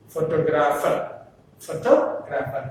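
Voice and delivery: "Photographer" stressed on the second syllable "to"; weight the "to" in "photographer". Shown as a demonstration. Teacher demonstrates the shifted stress, stress on "to" in "photographer". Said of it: "to is a stress syllable".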